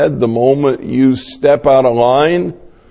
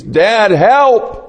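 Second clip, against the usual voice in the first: much higher, loud cry of Dad, help!; scream for help; 10 semitones higher, 4 dB louder than usual. Retold or imitated. Son crying out to father for help, high loud scream. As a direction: yell for your father in panic. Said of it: "If he screams".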